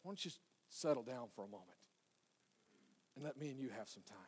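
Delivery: very soft, low urging; inner voice. Acted. Inner voice asking the busy listener to settle down, hushed. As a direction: coax gently, barely aloud. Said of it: "hear that voice say".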